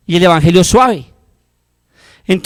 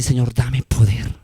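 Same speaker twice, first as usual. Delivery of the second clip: model prayer; 3 semitones lower than usual. Shown as a demonstration. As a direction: pray humbly on your knees. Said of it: "arrodíllate".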